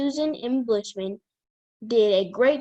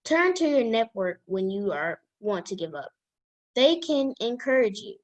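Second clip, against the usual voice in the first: put-on careful, even read-aloud voice for young listeners. Child reading a self-help book to the girls' chat, careful read-aloud voice. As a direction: read each sentence out like a school book report.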